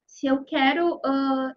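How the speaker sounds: ordinary talk, nothing marked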